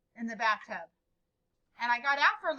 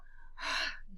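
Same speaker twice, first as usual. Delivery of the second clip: audible breath out, acting dad; imitated sigh from dad; retold exhale; 5 dB quieter than usual. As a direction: let out a short voiced sigh. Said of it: "I could hear him go".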